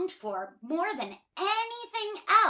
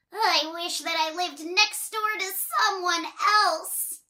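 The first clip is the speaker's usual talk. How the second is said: higher, louder character wish; wishing again; 6 semitones higher, 4 dB louder than usual. Acted. Miss Trouble at the well, wishing for a new neighbour. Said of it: "she said".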